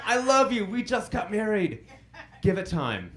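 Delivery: mock alarm.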